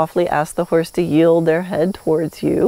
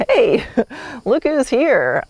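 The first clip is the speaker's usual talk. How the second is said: higher-pitched hello with a small laugh; friendly greeting; 5 semitones higher, slower than usual. Acted. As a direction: greet the horse in a lifted, drawn-out voice. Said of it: "walking in the barn and going".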